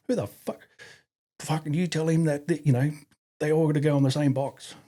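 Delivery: imitating angry RSM. His RSM blowing up.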